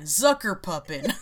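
Zuckerpuppen drawn out slowly with a rise at the end; German word said slowly. Shown as a demonstration. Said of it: "I'll say it again".

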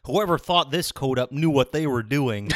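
loud, self-satisfied character quote; Bentley. Acted. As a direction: play the show-off, lightly in character. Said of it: "You do a great Bentley voice".

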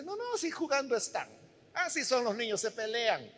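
put-on softly brushing it off as child's play; a quiet shrug of a parent's excuse; soft indulgent excuse. Parent to a worried listener: quiet indulgent excuse.

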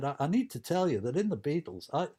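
light Liverpool lilt as George; a hint of Scouse in the voice; George Harrison accent. Beatle telling the piano teacher, in a light Liverpool accent. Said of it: "I'm trying to do George Harrison's accent".

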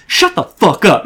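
mild mock snap at an opponent; imitated angry gamer. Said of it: "he starts getting so angry".

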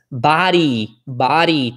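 "body" as bari with a clear final i. Shown as a demonstration. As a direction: voice the ee at the end of "body". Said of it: "tem que falar o i".

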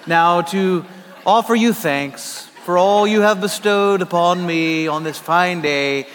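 hammed-up old-fashioned prayer; lightly pompous churchy thees and thous; mock King James English. Pastor retelling his road-rage prayer in mock King James prayer. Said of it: "speaking in the King James English".

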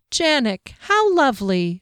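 brightly lifted, cheery delight; cheerful, starting high. A narrator's reading. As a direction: sound pleased as can be. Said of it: "she said cheerfully".

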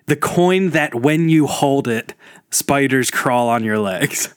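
slowed down, spooky tale retold; slow creepy legend telling. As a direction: drag out each word like a ghost story. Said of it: "don't bastardize my brilliant bit".

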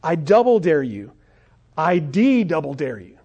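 lightly acted schoolyard taunt, escalating; mock challenge, each dare drawn into an arch. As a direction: goad him like a storybook bully. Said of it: "he starts to mock him".

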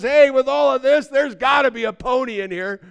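high, loud mock glee; joyful optimist kid. Kid in manure to his father, overjoyed shout. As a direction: shout it with hammed-up delight. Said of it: "laughing hilariously and just full of joy".

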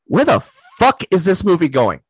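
puzzled, asked as a quote; first asking, still half-plain bafflement; baffled question. Retold or imitated. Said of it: "repeats the question louder".

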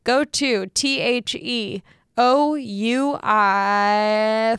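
slow spelled-out ad read. Shown as a demonstration. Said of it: "Let me start that over".

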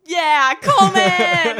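loud, high call across the room. Real, not acted. Calling out to the baby.

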